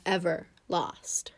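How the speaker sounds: soft whisper on the punchline. A narrator's reading. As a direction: hush it like a secret. Narrating the tortoise's wins.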